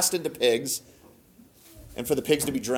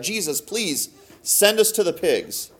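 higher-pitched, lightly acted plea; begging; 4 semitones higher, slower than usual. Demons asking Jesus for the pigs, mildly begging. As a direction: bargain with a touch of pleading. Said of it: "And they begged him".

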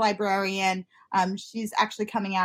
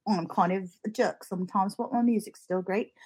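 softer, put-on singer's accent; mock British crooner accent; 5 dB quieter than usual. Goth fan voices the singer admitting his flaws, mock accent. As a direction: confess in a quiet mock accent. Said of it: "giving him that accent".

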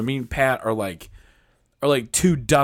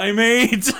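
put-on high kid voice; 8 semitones higher, 3 dB louder than usual. Playing child self.

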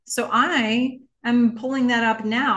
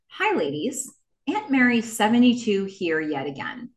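Mary Berrigan. Acted. Host reading a listener's email as her, lightly theatrical. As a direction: read it as a mildly dramatic letter writer. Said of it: "try to read this in what I believe Mary Berrigan's voice is".

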